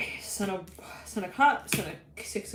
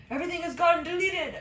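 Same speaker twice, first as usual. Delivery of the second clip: high panicked wail of a nervous intern; 9 semitones higher than usual. Acted. Nervous intern wails to the boss, high panicked voice. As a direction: cry out that everything is gone.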